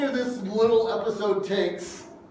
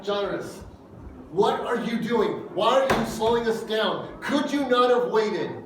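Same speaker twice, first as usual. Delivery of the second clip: imitating anger. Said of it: "what I would feel if I was Jairus".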